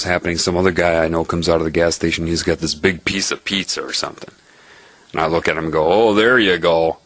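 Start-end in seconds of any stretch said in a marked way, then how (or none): 5.9-7.0 a light, teasing there you go; a bit louder friendly there you go; friendly quip. Retold or imitated. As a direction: tease a guy with big pizza. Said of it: "like that".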